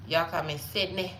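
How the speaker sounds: "Sydney" said as "Setneh"; mimicked name pronunciation. Mimicking viewers saying her name, "Sydney" as "Setneh". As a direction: imitate their way of saying "Sydney", ending in eh. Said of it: "You know what y'all call me?".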